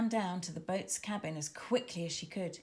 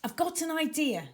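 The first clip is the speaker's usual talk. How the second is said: excited shout; 8 semitones higher, 4 dB louder than usual. Acted. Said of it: "shouted Tara".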